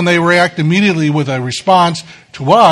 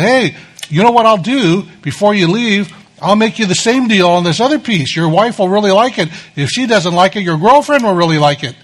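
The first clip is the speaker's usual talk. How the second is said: smooth salesman pitch; 4 semitones higher than usual. Retold or imitated. Vendor voiced in story.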